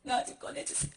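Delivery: hushed, tearful begging; weak pleading. Acted. Monk begging Jesus to take him out, soft tearful pleading. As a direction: let the plea sink to a faint sob.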